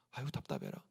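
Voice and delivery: very low, hushed groan of exasperation; muttered frustration. Acted. Jesus looking at his doubting followers, muttered frustration. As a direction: mutter it under your breath, fed up. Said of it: "우리 예수님 볼 때".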